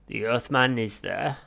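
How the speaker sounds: slow, whispered alien report; Vogon voice. Acted. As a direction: report like a cold Vogon, slowly.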